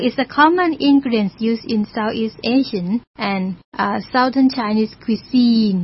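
very slow, word-by-word English reading; slow read-aloud. Shown as a demonstration. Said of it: "teacher reads English example aloud". (อ่านประโยคภาษาอังกฤษช้ามาก ทีละคำ)

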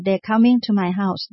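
They're run together as one short syllable; reduced They're. Shown as a demonstration. Teacher showing contraction, They're said short and merged. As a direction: clip the R in They're, merging they and are. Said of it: "เสียง R จะออกสั้นนิดนึง".

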